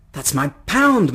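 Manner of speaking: loud, slow, emphatic outrage; indignant hiss. A narrator's reading. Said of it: "my mother hissed".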